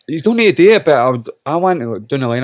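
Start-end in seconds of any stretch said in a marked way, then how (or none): 0.1-0.8 own retold protest. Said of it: "I was like".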